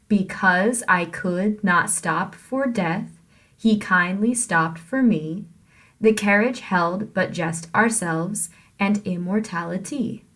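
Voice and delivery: measured beat: "Because I could" as be-CAUSE i COULD; iambic stress. Shown as a demonstration. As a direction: recite with every second syllable stressed, from "Because" on. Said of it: "with the iambs sounding like this".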